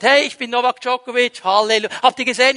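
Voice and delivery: playfully loud self-promotion; mock show-off announcement. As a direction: announce yourself to the whole cabin, hammed-up. Imagined celebrity loudly announcing himself.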